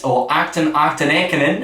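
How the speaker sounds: fumbling a Dutch ride name in a bad Dutch accent; poor Dutch accent. Host reading a ride name in a poor Dutch accent. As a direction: attempt the Dutch name with a self-mocking Dutch accent. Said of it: "as I say it in my poor Dutch accent there".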